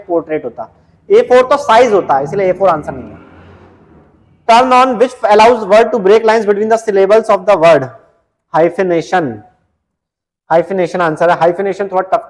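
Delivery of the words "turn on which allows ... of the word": reading the question out slowly, word by word; slow, deliberate quiz read-out. Acted. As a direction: dictate the question slowly to the class. Reads the quiz question aloud.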